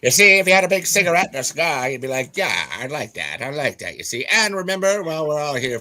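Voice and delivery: put-on old Hollywood star voice; glamorous golden-age film star; transatlantic accent. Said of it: "transatlantic accent".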